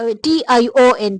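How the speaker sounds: टी आई ओ एन, each letter slow and separate; spelled out letter by letter. Shown as a demonstration. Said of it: "शन की आवाज देता है". (अक्षर धीरे-धीरे अलग-अलग बोलना)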